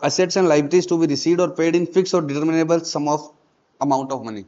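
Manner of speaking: definition read very slowly, each word set apart; unhurried textbook read; slow dictation. Shown as a demonstration. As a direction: dictate it for the class to copy down.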